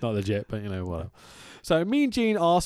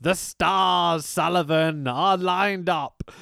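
slow, grand cult-leader intoning; lightly voiced wrestling villain, slowed and portentous; mock Taskmaster promo; slower than usual. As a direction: ham up a mystical villain promo. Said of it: "And he goes".

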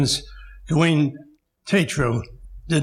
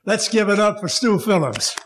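hype man; 5 semitones higher than usual. Retold or imitated. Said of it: "as the rockers and rappers say".

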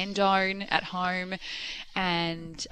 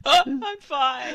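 slow, higher, sobbing through the words; hammed-up teary wail, louder; mock crying; 7 semitones higher, 7 dB louder, slower than usual. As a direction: imitate yourself bawling while insisting you're fine. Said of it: "I was like this".

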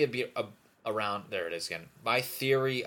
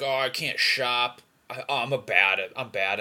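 mock helpless complaint; 4 semitones higher, 8 dB louder than usual. Guy griping about gift shopping, mock helpless complaint. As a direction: act out a guy grumbling about himself. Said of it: "you always see, like, dudes like".

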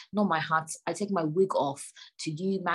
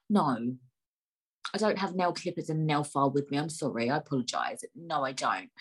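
lower-pitched, understated retort; mock apology; 3 semitones lower than usual. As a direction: apologise without meaning it, pitched down. Acts out her curt mock apology.

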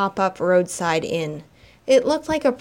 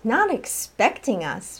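snapped; 3 semitones higher, slower than usual. Acted. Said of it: "Vera snapped".

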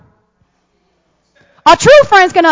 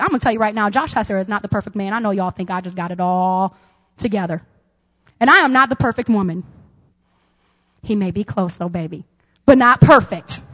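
soft aside; 8 semitones lower, 6 dB quieter than usual. Real, not acted. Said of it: "confiding aside".

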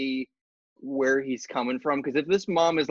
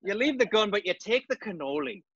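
higher, lightly hammed-up gangster; mock mobster; 4 semitones higher than usual. Co-host joining the mobster riff, mock gangster voice. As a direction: play at a movie mobster quote.

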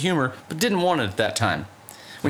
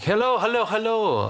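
cheery doctor greeting; 10 semitones higher than usual. Retold or imitated.

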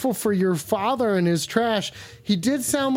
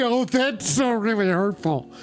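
mock hurt. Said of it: "How can I pretend like that doesn't hurt".

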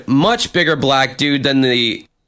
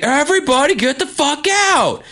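much higher, imitating a bouncer yelling; mock yell everyone out; 13 semitones higher than usual. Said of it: "And he's like".

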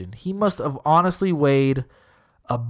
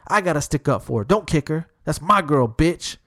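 higher, hammed-up pleading bluster; the guy mockingly claiming the girl, hammed-up protest; mock protest; 4 semitones higher than usual. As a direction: play the self-appointed defender, a bit over the top.

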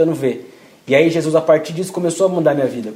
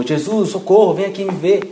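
grito imitado; 5 semitones higher than usual. Retold or imitated. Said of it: "ele gritou".

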